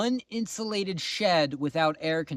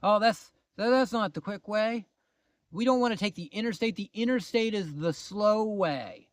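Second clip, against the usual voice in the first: mock know-it-all husband; 3 semitones higher than usual. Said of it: "He's like".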